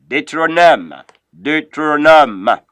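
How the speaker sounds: Deuteronome said "day-tro-NOM"; Deuteronome in French, landing on a falling -nom; French pronunciation. Shown as a demonstration. Teacher models the next book, Deuteronome as "day-tro-NOM". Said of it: "follow up the pronunciation there".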